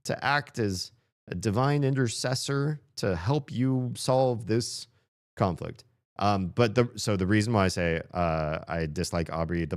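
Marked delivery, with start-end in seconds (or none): 0.0-5.8 higher, grand intercessor voice; a lightly voiced solemn intercessor; divine intercessor. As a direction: speak as a kindly church mediator. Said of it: "Church would be".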